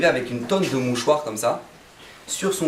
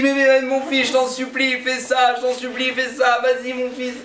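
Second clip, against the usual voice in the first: pleading father; 8 semitones higher than usual. Retold or imitated. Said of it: "Tu dis".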